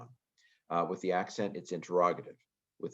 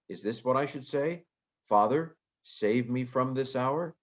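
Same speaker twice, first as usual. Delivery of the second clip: voicing Jesus; 6 semitones higher, 3 dB louder than usual. Teacher voicing Jesus's anguished question.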